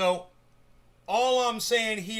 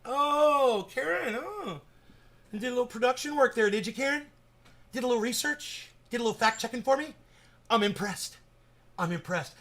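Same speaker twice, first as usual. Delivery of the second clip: mock-impressed teasing; 3 semitones higher than usual. Real, not acted. Teasing viewer Karen.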